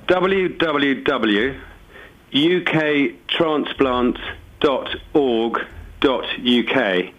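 slow, careful dictation, spaced out; slowly. Shown as a demonstration. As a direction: spell it out slowly for listeners to write. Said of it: "I'll say it slowly in case anybody wants to write it down".

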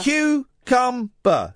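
cucumber slow, syllable by syllable; stretched syllables. Shown as a demonstration. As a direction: drag out cucumber in beats. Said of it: "And you go, da, da".

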